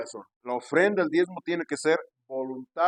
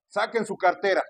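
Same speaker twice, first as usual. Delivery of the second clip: lightly mimicked pastor's command, pitched up; raised collection-time command; imitated pushy pastor; 5 semitones higher, 3 dB louder than usual. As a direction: order the congregation like a pushy pastor. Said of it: "con ese acento y ese tono de voz".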